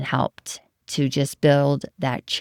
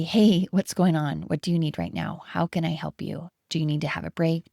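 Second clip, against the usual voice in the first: compassionate coach. Acted. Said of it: "If I were a compassionate coach".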